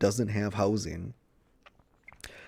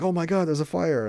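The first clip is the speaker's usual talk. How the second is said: higher, louder startled gasp of a line; mock alarm; 9 semitones higher, 4 dB louder than usual. Cecilia spotting the stove fire, mock alarmed. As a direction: play her catching sight of flames.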